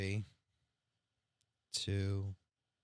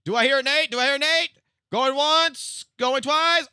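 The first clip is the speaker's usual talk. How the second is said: auctioneer; 7 semitones higher, 4 dB louder, slower than usual. Pretend. Mock auction for editing bid.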